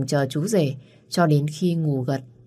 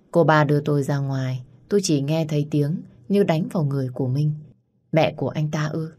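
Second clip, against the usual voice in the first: ordinary delivery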